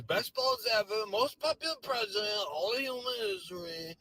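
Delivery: a parody of Trump's bragging posts; mock Trump boast. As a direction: ham up his self-praise.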